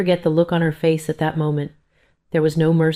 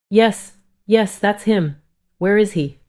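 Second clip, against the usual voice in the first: urgent, high, anxious voice; 5 semitones higher, 3 dB louder, slower than usual. Acted. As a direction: push for answers, worried. Anxious mother at hospital desk.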